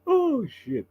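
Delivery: breathless laugh; stifled giggles. Real, not acted. Still laughing after the joke.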